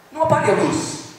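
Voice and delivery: father suddenly afraid of the dark; frightened plea. Retold or imitated. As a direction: beg urgently, scared of the dark. Father panicking, going blind.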